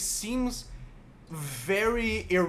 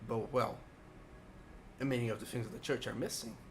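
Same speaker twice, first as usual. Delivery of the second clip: put-on very old man; 5 dB quieter than usual. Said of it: "a very frail old man".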